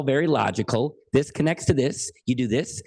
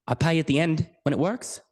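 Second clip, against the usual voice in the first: lightly imitated Australian accent; bad Australian accent; 3 semitones higher than usual. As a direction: quote the rig worker in a rough Australian accent. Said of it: "this is my really bad Australian accent".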